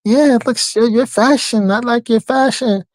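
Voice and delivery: imitated Eastern European accent; high-pitched Eastern European accent. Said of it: "in that Eastern European accent".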